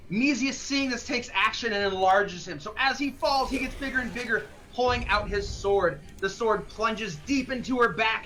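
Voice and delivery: measured, lightly dramatized action storytelling; game master narration. Acted. Game master to players describing the leap onto the spider, narration. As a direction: paint the action phrase by phrase.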